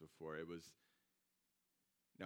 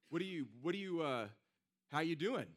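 a lightly voiced, high, loud chummy hello; friendly greeting; 8 semitones higher, 7 dB louder than usual. Friend checking in on the man at the car, mild buddy voice. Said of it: "He's like".

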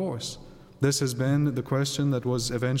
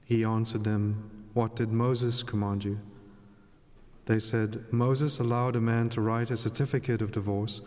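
Gospel reading. Acted. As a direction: read scripture aloud at Mass.

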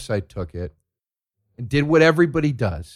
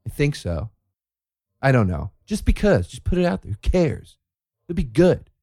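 mock clueless blogger; 2 semitones higher than usual. Mock blogger answering questions.

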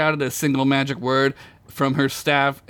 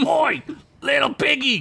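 high, drawn yell, much higher than usual; yelled taunt; 13 semitones higher than usual. A narrator's reading. Gunk yelling at the little piggy, high taunting yell. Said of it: "Gunk yelled".

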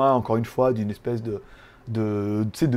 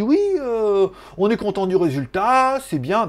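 chargée de com imitée; 5 semitones higher than usual. Retold or imitated. Imite une autre chargée de com.

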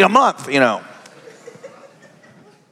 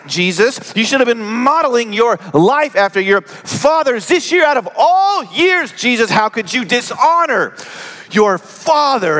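a mother's raised, scolding voice, higher; 4 semitones higher than usual. Acted. Mary scolds twelve-year-old Jesus after searching three days, raised and scolding. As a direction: demand answers from the runaway son.

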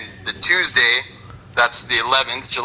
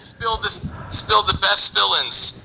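cyborg voice; 8 semitones higher, slower than usual. Acted. Playing the cyborg.

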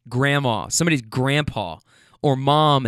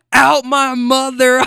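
high, loud, slow gleeful echo; hammed-up squeal repeating a joke; mock delight; 10 semitones higher, 7 dB louder, slower than usual. Riders echoing the driver's joke, high mock delight.

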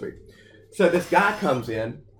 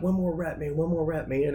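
higher-pitched retold workout encouragement; encouraging coach; 4 semitones higher than usual. Trainer pushing a man through his workout, encouraging. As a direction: urge him on like a trainer. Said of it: "But I'm so encouraged".

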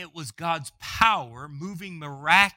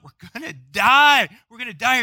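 mock panic, higher and louder; panicked cry; 5 semitones higher, 11 dB louder than usual. Preacher voicing disciples in the storm, panicked. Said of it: "they're crying out".

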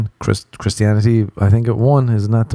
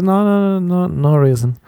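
much higher, singsong fake denial; buddy pouncing with mock denial; teasing denial; 9 semitones higher than usual. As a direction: deny it so it sounds like yes.

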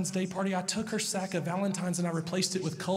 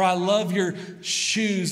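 slow, louder gushing compliment; slow, louder adoring praise for his little girl; 5 dB louder, slower than usual. Retold or imitated. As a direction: lay the love on thick. Dad praising daughter.

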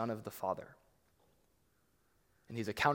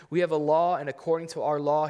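loud, raised demand; insistent crowd; 3 semitones higher, 7 dB louder than usual. Acted. Preacher voicing the Jews insisting to Pilate, loud insistent shout. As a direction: press the law on Pilate forcefully.

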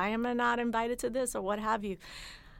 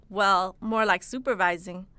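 pointed stress on supervising; emphasis on supervising; 7 dB louder than usual. Acted. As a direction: lean on supervising, said slowly and a bit louder. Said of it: "just enough emphasis on the word supervising".

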